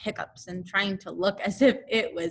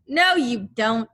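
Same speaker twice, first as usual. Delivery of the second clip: excited; 3 semitones higher, 9 dB louder than usual. A narrator's reading. Crowd bickering.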